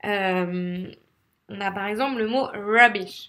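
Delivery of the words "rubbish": "rubbish" with a held English R. Shown as a demonstration. Teacher giving an example word, "rubbish" with a shallow English R. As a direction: ease into the R of "rubbish", not from the throat. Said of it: "vous avez le R en consonne".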